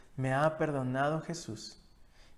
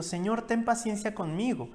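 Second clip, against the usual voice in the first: pleading servant; 6 semitones higher than usual. Acted. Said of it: "le suplicaba diciendo".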